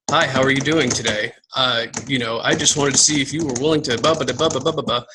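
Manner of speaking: flat, even, robotic read of a canned invite; monotone robotic message. Shown as a demonstration. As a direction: recite it like a bored robot. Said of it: "monotone and robotic".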